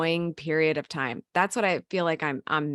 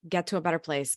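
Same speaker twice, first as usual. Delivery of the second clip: urging self-talk; 3 dB quieter, faster than usual. Retold or imitated. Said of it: "because you're like".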